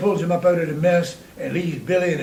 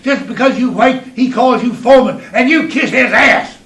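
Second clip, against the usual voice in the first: higher, louder mocking rant; higher, louder scornful tirade; building rant; 5 semitones higher, 4 dB louder than usual. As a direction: tear into him, getting hotter. Inner rant against Daddy.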